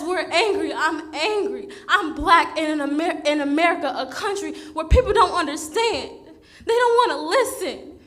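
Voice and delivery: real, raw anger spilling over with shaky laughter; getting emotional. Real, not acted. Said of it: "I'm sorry for getting emotional".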